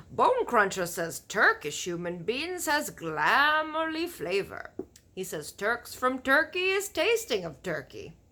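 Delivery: big friendly giant warning about cannibal giants; BFG giant voice. Acted. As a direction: boom out the giant's grim warning. Giant's voice in story.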